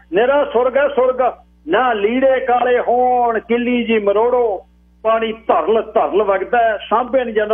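high, stretched-out sales patter; singing the praises in a high voice; enthusiastic pitchman. Acted.

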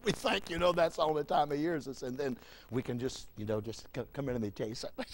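low, very soft aside, as if out of earshot; hushed mock confidence. People thinking God only hears prayers, hushed mock confiding. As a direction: drop right down like sharing a secret.

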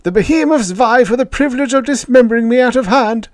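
very high, loud alien squeal; frantic little alien voice, held high throughout; agitated alien. A narrator's reading. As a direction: pitch it right up in panicked protest. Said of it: "his throat bladder pulsating in agitation".

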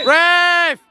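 sharp loud appeal; shouting at the ref. Real, not acted. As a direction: yell it at the referee. Appealing to referee.

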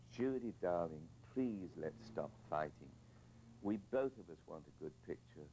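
a mild tender appeal to make peace; gentle pleading. Retold or imitated. Director kneeling beside the actress, gently pleading.

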